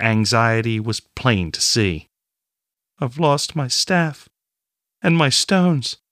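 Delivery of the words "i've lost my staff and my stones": slow, choked, words squeezed out; strangled voice. Acted. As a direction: barely get the words out, tight throat. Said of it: "she managed to say".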